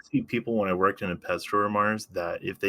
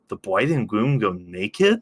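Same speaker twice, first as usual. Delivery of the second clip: lightly mocking kiddie-voiced question; little kid saying it; 3 dB louder, slower than usual. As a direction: imitate a childish, astonished question. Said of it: "she sounds like such a little kid saying it".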